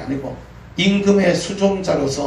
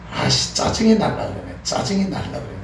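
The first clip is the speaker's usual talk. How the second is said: mildly peeved mutter, trailing softer; imitated grumbling; 4 semitones higher, 4 dB quieter than usual. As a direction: imitate a wife grumbling to herself. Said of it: "뭐라는 투덜거리냐면". (아내의 투덜거림을 흉내 내듯)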